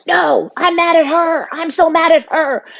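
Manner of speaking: imitating an upset brother's outburst; retold angry outburst. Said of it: "he got really loud, and he's like".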